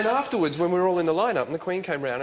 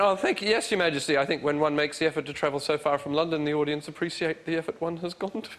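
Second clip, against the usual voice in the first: pitched-up mock-posh "one" speech; posh royal reply; 3 semitones higher than usual. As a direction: ham up a grand formal answer. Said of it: "so I went".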